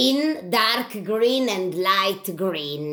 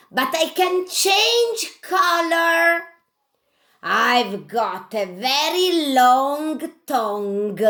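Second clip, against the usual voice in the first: chameleon puppet voice. Acted. Chameleon puppet tells the class about himself, lively.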